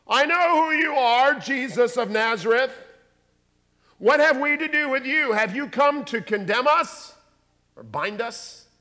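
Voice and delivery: high, loud demon shriek. Acted. Preacher voicing the demon confronting Jesus, shrieking. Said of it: "the demon shrieked out".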